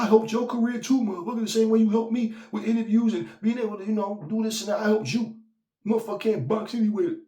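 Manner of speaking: high, loud, furious rant; angry rant. Retold or imitated. Imitating Chris Colbert's angry rant, high and loud. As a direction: let the betrayed man explode. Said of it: "and that man said".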